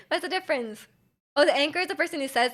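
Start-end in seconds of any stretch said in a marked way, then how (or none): 0.1-0.9 amused, laughing as you say it again. Real, not acted. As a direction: repeat "What's the difference?" with a real laugh through it. Repeats the question, laughing.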